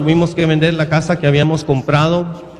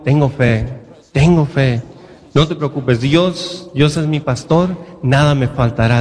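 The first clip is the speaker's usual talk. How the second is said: calm assurance. Retold or imitated. Retells his calm answer of faith.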